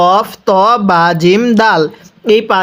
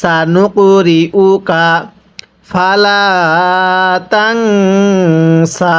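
slow drawn-out tajweed chant; Quran recitation; much slower than usual. Shown as a demonstration. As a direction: stretch every vowel like a teacher reciting. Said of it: "আরেকবার পড়ুন".

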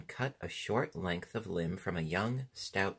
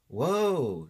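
loud, high drawn-out shout; 7 semitones higher, 9 dB louder than usual. A narrator's reading. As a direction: shout a long, swooping command to halt. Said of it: "shouted Tip".

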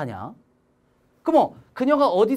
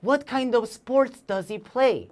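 slow reading; 3 semitones higher, much slower than usual. Shown as a demonstration. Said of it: "저는 알고 싶어요".

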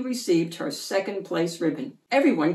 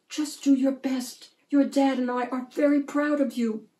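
mother's whisper; 6 semitones higher than usual. A narrator's reading. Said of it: "whispered into her ear".

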